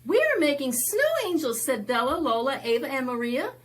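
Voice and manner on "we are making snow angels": put-on high, quick and loud little girls; high child's voice. Storyteller voicing the girls playing in the snow, high and excited. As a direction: squeal it like playful kids.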